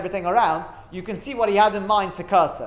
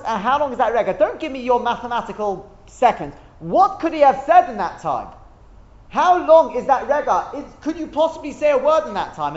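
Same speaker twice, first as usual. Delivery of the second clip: higher-pitched, emphatic questioning; insistent challenge; 5 semitones higher, 3 dB louder than usual. Acted. Teacher voicing the Gemara's demand to students, insistent challenge.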